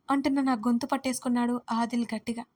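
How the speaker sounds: plain reading voice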